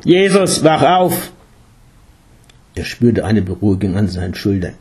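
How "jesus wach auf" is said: higher, louder calling out; urgent wake-up call. A narrator's reading. Guru rousing the meditating Jesus, urgent call.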